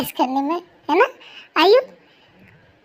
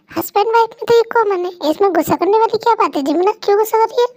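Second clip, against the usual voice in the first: higher, fast, sugary tease; teasing friend voice; 5 semitones higher, faster than usual. Acted. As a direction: needle her in a sweet voice.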